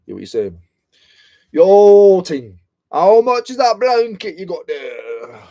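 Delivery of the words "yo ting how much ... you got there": loud, slow roadman haggling voice; hammed-up London roadman haggling; mock roadman. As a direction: play a cheeky roadman buyer. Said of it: "mocking stuff, I always go to Roadman".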